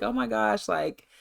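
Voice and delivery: lightly acted excited vlogger; super excited. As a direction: gush mildly on her behalf. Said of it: "just super excited".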